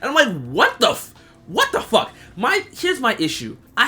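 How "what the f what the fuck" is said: high, incredulous what the fuck; shocked disbelief. Retold or imitated. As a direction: react in total disbelief. His reaction to Jon returning.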